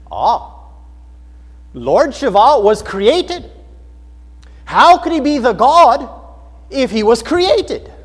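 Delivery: put-on loud, slow Indian accent; Balaswamy. Translator rebutting a Hindu's answer, imitated Indian accent. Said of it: "with an accent like this".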